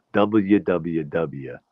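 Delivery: "W W W" said very slowly, each letter spelled out; slow, deliberate "W W W"; careful spelling. Shown as a demonstration. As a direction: spell out "W W W" one letter at a time. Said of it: "I don't like how people say W".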